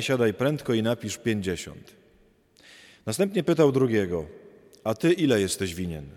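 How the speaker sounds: measured, solemn liturgical reading; gospel reading. Acted. Priest reading the Gospel at Mass, measured and solemn. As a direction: read the Gospel aloud to the congregation.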